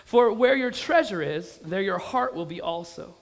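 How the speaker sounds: slow, weighty Bible reading; deliberate, emphatic pulpit reading; scripture reading. Real, not acted. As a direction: read the verse aloud with punched key words. Reads scripture aloud to congregation.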